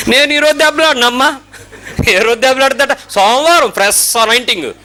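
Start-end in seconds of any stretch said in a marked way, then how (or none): 0.1-1.4 woman's boast. Retold or imitated. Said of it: "అంది ఒక ఆవిడ".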